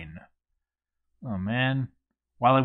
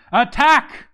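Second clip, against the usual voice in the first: battle cry shout; 12 semitones higher, 6 dB louder than usual. Acted. Commander orders the charge.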